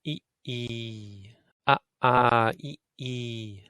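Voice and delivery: Ah short, ah held long; vowel pair short and long; short then long ah. Shown as a demonstration. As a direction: clip the first Ah, stretch the second ah. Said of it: "like that".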